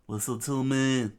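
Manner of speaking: mild mock yell; screamed. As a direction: call for attention. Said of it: "he screamed out".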